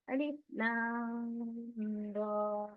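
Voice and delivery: अलिफ लाम said slowly, each letter name held long; six-beat stretch. Shown as a demonstration. Teacher demonstrating separate stretched letters, slow. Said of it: "इस तरीके से".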